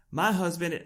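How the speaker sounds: a start at a Southern voice; sudden Southern lilt on the quote; Southern accent. Acted. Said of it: "go straight into a Southern accent".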